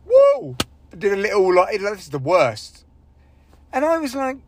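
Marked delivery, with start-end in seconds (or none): 0.1-0.5 a much higher, loud mocking "Whoa!"; mock heckle. Heckler in the crowd mocking the comic, loud high whoa. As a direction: sneer at the bad joke like a heckler. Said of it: "one guy just went".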